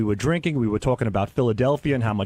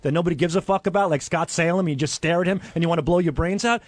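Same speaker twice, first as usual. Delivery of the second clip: indignant rant; 3 semitones higher than usual. Real, not acted. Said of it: "defending his speech".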